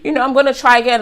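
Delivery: high, laughing mock delight; giddy imitation. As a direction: gush like she just got her wish.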